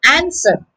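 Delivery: "answer" with the flat American A, falling; American pronunciation. Shown as a demonstration. Teacher modelling the American version for students. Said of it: "This is in American English".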